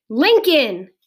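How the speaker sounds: loud call of a name; high start, falling away. A narrator's reading. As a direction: holler for someone out of sight. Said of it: "she called".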